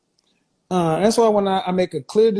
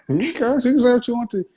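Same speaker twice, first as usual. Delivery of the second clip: laughing whisper; 6 semitones higher than usual. Real, not acted. Laughing reply to curse question.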